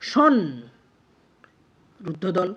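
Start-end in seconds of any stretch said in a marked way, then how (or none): 0.1-0.4 সন held long on its own; isolated syllable. Shown as a demonstration. Teacher breaking a word down for students, isolated syllable. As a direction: stretch সন out as a separate syllable. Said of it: "কিভাবে দেখে নিই একটু".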